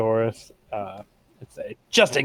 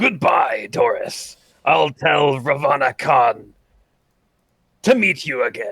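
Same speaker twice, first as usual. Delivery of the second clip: grand, hammy, theatrical stage enthusiasm; 2 semitones higher than usual. In a tabletop game scene, a character addresses Doris: dramatic enthusiasm. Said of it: "with dramatic enthusiasm".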